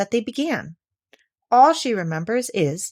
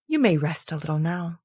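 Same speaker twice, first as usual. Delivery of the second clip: kindly; 3 semitones lower than usual. Acted. The Queen props tired Alice against a tree, kindly. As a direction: settle her down kindly. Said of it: "said kindly".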